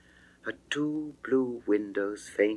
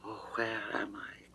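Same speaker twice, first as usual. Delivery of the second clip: dazed whisper on waking; faint whisper; 12 dB quieter than usual. Acted. Venus wakes from her faint, whispering dazedly. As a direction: breathe it out barely conscious.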